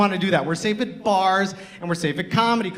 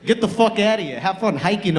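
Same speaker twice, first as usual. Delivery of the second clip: lightly put-on New York accent; a touch of New York accent; New Yorker accent; 3 semitones higher than usual. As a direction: dismiss them like a New Yorker. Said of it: "You turn New Yorker for some reason".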